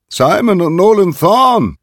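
high, loud, strange bird-like call; eerie, high-pitched falcon summons. A narrator's reading. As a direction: cry out like a falcon that speaks too humanly. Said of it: "rief der Erste mit einer Stimme, die zu menschlich klang".

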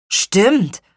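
high, loud single-word agreement; agreeing boy. A narrator's reading. Brother agrees with sister.

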